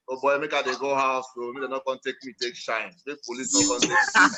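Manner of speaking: Nigerian Pidgin, lightly voiced; quoting a guy in Nigerian Pidgin. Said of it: "in pidgin".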